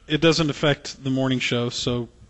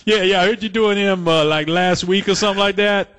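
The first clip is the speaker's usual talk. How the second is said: higher, eager mock fanboy voice; acted-out pushy admirer, pitched up; imitated drive-thru fan; 4 semitones higher than usual. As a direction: gush as the delighted restaurant guy. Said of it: "That's the guy".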